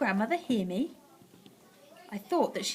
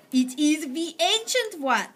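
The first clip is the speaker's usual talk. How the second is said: slow, higher witch; 6 semitones higher, 4 dB louder, slower than usual. A narrator's reading. Witch answering at the door, slow. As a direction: drag it out.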